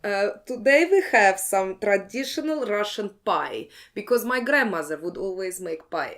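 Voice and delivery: put-on light Russian accent. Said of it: "maybe I tell you in a Russian accent".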